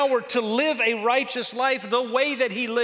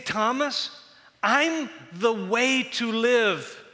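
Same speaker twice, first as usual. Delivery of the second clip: fervent plea; 4 semitones higher than usual. Acted. Jesus pleading with his followers.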